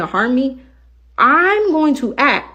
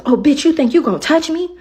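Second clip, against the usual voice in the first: higher, hostile mimicry; mock threatening passenger; 7 semitones higher, 4 dB louder than usual. Driver imitating a passenger threatening her, mock hostile. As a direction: throw her threat back mockingly. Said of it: "She goes".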